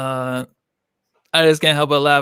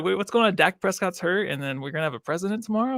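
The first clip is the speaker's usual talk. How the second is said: higher, bewildered, breaking into laughter; mock confusion; 6 semitones higher than usual. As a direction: play clueless and baffled, laughing at the end. Acts out own clueless confusion.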